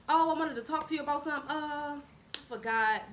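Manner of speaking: imitating someone stalling, quick then dragged out. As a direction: rush the excuse, then draw out the "uh". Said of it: "Basically stalling".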